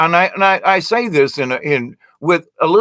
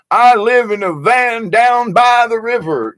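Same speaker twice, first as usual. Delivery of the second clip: higher, louder hammed-up ranting; SNL skit quote; 8 semitones higher, 3 dB louder than usual. Recalling the SNL skit, in a loud higher hammed-up rant. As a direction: bellow it like the van-by-the-river guy. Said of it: "the old Saturday Night Live skit".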